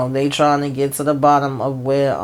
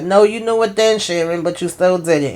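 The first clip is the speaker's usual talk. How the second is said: scolding retort; 3 semitones higher than usual. Retold or imitated. Richard scolding Sharon.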